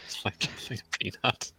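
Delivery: airy, barely voiced character quote; put-on cartoon voice. Repeating the joke to friends, airy cartoon voice. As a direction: let the voice mostly drop out.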